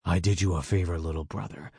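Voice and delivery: lightly voiced smug older brother; cold villain.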